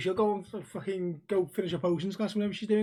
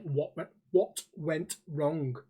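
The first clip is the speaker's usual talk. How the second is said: Asian accent impression; 3 semitones lower, 4 dB quieter, much slower than usual. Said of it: "the stereotypical, like, with Asians".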